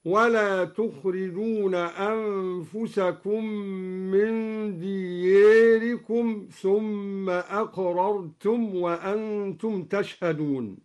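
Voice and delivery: دياركم with the alif tilted toward e, slow; taqlil on diyarikum. Shown as a demonstration. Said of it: "قرأ الدوري بتقليل ألف دياركم". (تقليل ألف دياركم)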